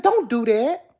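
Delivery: high, loud mock protest; imitating her. Showing how she said it, high mock protest. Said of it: "I think that's how I did".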